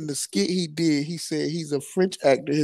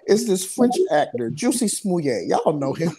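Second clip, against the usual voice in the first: quoting the skit; 2 semitones higher than usual. Retold or imitated. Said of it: "He was like".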